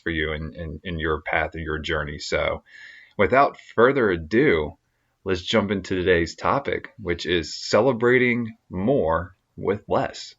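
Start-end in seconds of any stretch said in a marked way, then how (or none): 3.2-10.3 formal anchor-style sign-off; newscaster voice. Acted. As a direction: announce it like a TV host. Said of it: "You sound like a frickin' newscaster".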